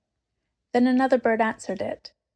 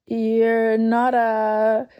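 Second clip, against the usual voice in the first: slow, trembling, louder question; shaky voice; 6 dB louder, much slower than usual. A narrator's reading. Susan asks Aslan if he is a ghost, shaky. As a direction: falter before the word. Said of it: "in a shaky voice".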